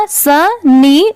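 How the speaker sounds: सनी stretched very slowly, syllables drawn out; slow blended demo. Shown as a demonstration. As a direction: draw out सनी slowly so learners hear both parts. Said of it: "पूरा क्या हो जाएगा?".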